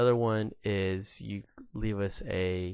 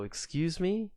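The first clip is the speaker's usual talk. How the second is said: high rising disbelief; a high, indignant "excuse me"; incredulous; 9 semitones higher, slower than usual. Retold or imitated. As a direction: hang on the question in shock. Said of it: "And I go".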